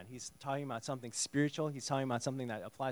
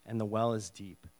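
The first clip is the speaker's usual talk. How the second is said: gracious. Shown as a demonstration. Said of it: "So she's very gracious".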